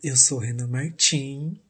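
slow, half-hearted seductive voice. Acted. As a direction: try to sound sexy, slowly. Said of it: "Com essa voz sedu-, sedutora, só que não".

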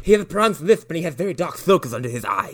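exaggerated lisp on every s; mock lisp. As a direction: imitate a butler with a thick lisp. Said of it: "he's got a lisp".

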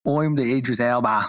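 bad English accent, half laughing; Idris Elba. Co-host retries his Idris Elba impression, botched English accent. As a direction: try English and land near Australian. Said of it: "That was my English accent".

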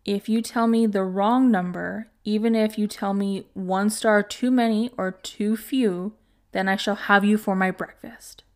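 a gloating threat, the last line dropped to a whisper; evil grin. Acted. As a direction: savour the threat, grinning. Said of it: "with an evil grin".

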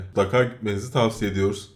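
talking through a yawn; words stretched by a yawn. Real, not acted. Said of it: "Abi ne yapıyorsun ya?". (esneyerek konuşma)

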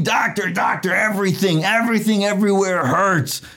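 whiny patient. Acted. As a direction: wail it like a patient who hurts everywhere. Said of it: "this guy goes to the doctor saying".

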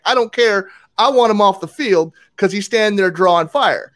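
retold indignant insistence; heated. Player argues back at the ref, mildly heated. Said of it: "I was heated about it".

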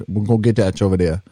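a hint of a stereotypical Louisiana accent. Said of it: "Louisiana stereotypical accent".

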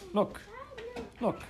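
sudden cry. A narrator's reading. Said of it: "Cyril cried suddenly".

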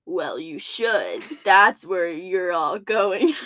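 low, slow demonic voice; satanic voice. Retold or imitated. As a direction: growl it like the devil. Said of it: "In the most satanic voice you'll ever hear".

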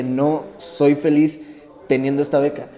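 drawn-out, slow words of a hard truth; slow, heavy retold thought; slow realization. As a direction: let each word land slowly, dawning on him. Retelling his own painful realization.

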